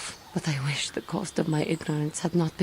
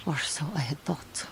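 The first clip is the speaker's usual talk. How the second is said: whisper; 5 dB quieter than usual. Acted. Defeated admission.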